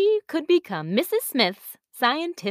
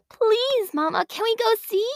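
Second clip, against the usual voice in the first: put-on high eager child begging, much louder; excited little girl; 13 semitones higher, 3 dB louder than usual. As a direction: squeal it with delight. Girl begging her mother.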